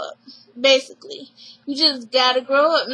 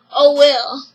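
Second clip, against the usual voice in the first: dismissive shrug; 5 dB louder than usual. Retold or imitated. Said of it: "And then she's like".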